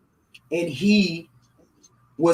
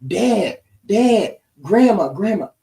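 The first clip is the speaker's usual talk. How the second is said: higher, louder eager calls; a little girl calling her family; child calling out; 4 semitones higher, 4 dB louder, slower than usual. Retold or imitated. Granddaughter calls out happily to her dad and grandma.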